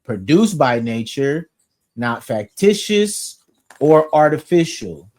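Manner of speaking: slow, measured reading of a dictionary entry; dictionary entry read aloud to the group. Shown as a demonstration. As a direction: read the old definition out deliberately. Reads 1828 Webster entry aloud.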